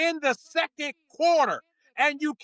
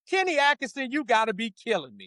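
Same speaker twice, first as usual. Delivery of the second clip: lightly voiced barking gym coach; coach's voice. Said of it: "now I'm putting on my coach's voice".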